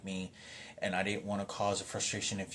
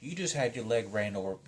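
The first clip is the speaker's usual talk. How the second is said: imitating mother; 4 semitones higher than usual. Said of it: "She's like".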